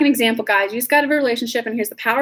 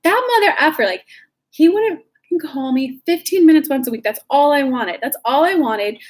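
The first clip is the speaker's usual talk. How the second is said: mock angry rant, pitched up at first; demonstrated temper tantrum; 4 semitones higher than usual. Shown as a demonstration. Coach showing how she lets anger out, acted tantrum. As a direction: vent like a short foot-stomping tantrum. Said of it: "throw a thirty-second temper tantrum when I'm mad".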